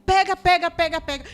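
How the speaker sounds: high, loud doctor's order; shouted emergency command, rapidly repeated; urgent shout. Retold or imitated. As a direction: call out urgently to the team.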